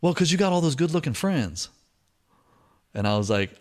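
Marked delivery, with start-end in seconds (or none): 0.0-1.7 imitated admiring woman. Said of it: "And she goes".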